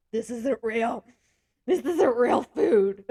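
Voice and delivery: insist, leaning on isnt; emphatic insistence. Retold or imitated. At Olive Garden insisting to his girlfriend, loud slow protest. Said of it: "I'm like".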